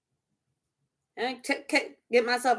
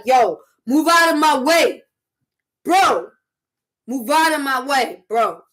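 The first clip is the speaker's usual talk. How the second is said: louder, mock-tough street warning; hammed-up hard "bro" voice; voice getting deep; 5 dB louder than usual. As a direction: act tough, telling someone to shift. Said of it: "your voice get deep".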